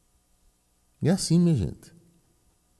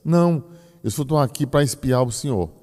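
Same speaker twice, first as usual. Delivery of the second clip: higher girlish voice, lightly voiced; girl's reply; 6 semitones higher than usual. A young girl telling the teacher she came to watch him, higher voice. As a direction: answer like a shy little girl. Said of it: "Ela disse".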